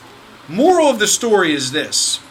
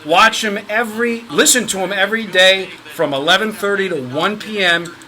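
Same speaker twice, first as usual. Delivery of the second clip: louder, emphatic radio plug; promo announcer read; 4 dB louder than usual. Acted. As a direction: punch out the sponsor plug like an announcer. Reads the show's promotional plug.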